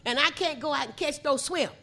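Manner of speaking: "shrimp" as "swimp"; Gullah SHRIMP. Shown as a demonstration. Storyteller voicing the fisherman, "shrimp" said as Gullah "swimp". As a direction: turn "shrimp" into "swimp", dropping the R. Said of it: "they say swimp".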